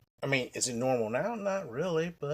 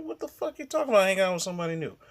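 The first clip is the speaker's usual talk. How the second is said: much higher, louder outraged cry; outraged disbelief; 4 semitones higher, 4 dB louder, faster than usual. Retold or imitated. To the sister on hearing she moved on, angry shout. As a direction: blurt it out in shock. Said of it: "I'm like".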